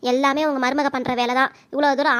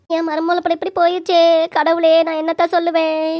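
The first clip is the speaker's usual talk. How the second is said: wailing lament; 5 dB louder than usual. Acted. Mother-in-law wailing to god.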